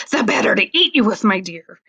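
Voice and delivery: quick, pouncing wolf line; a hint of a hungry wolf; menacing wolf. Wolf springing the trap on the girl, quick and menacing.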